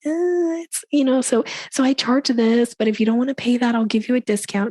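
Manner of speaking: mock reluctance to name a price; hesitant about fees. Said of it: "be willing to say your fees without".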